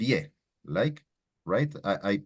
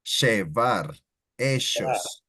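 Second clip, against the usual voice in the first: Argentine accent. Shown as a demonstration. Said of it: "sound like a sh".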